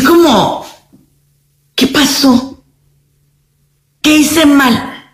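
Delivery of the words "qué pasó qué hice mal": confused victim. Retold or imitated. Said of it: "deja a la víctima confundida".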